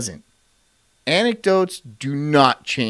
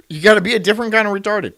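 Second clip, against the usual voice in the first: scornful; 4 semitones higher, 3 dB louder, much faster than usual. Acted. Repeats line louder and faster.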